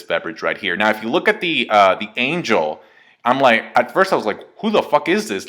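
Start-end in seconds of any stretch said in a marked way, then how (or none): 4.6-5.5 higher-pitched mock disbelief; baffled reaction. Reviewer recalling his first look at the angel, baffled. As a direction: act out being totally thrown.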